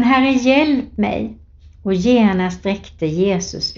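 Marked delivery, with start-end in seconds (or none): 0.0-1.4 high, very slow drawn-out plea; crying out for help. Acted. Peter sinking in the water cries to the Lord, slow high plea. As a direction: stretch the cry like someone sinking. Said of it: "Då ropade han".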